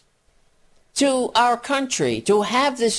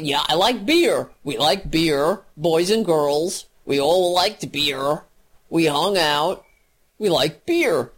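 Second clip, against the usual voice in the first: mock Kavanaugh; 4 semitones lower than usual. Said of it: "squeaky and boopy and brocky".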